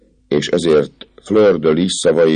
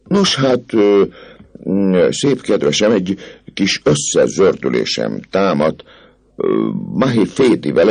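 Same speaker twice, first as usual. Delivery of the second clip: higher, hemming officer with swagger; boastful captain; 4 semitones higher than usual. Acted. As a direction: brag through the hesitation. (hetvenkedő, hebegő kapitány)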